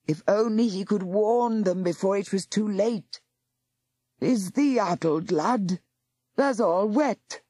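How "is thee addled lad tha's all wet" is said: lightly voiced gruff old Aufwader.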